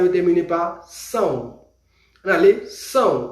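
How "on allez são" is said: modelled "são"; teacher model of "são". Shown as a demonstration. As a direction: say "são" with a nasal sãw ending. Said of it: "Répétez comigo".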